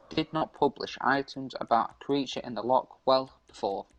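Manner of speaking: halting read-aloud from an article. Acted. Streamer reads an urban legend to a friend, reading aloud. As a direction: read it out to a mate, stumbling a little.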